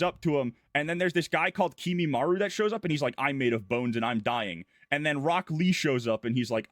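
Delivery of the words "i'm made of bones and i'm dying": mock dying fighter. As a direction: lower and fading, a lightly played dying man.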